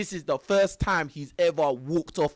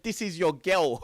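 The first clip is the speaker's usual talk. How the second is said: laughing through the quote. Retold or imitated. Retelling H S's line to viewers, laughing through it. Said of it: "and H S said".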